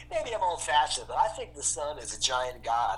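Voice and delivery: put-on old-fashioned guy. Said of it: "one of my favorite characters".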